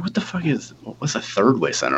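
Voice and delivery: high stunned what-the-fuck; shocked disbelief. Retold or imitated. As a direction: recall the shock, voice jumping up. Shocked reading insurance info.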